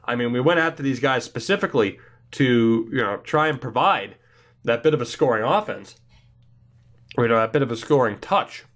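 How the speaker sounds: stuffy nose from a cold; talking through a head cold; congested. Real, not acted. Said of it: "If I sound all congested".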